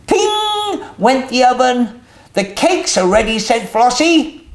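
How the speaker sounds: lively storybook reading with voiced characters; reading to children. A narrator's reading. Host reading a picture book to young viewers, lively storytelling. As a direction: read it out to little ones, bright and animated.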